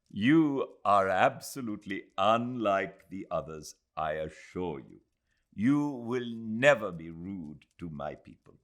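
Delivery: a formal bow in words; polite formality. Acted. Aziz answering Adela with formal courtesy.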